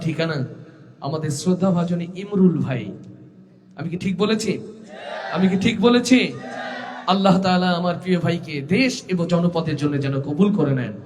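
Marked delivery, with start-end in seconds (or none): 5.3-6.2 rousing call-and-response shout; shouted repeat. Real, not acted.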